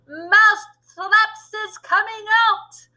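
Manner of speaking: high, slow, loud witch proclamation. A narrator's reading. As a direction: stretch it out as a triumphant witch yell. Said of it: "raised her voice even louder and shouted".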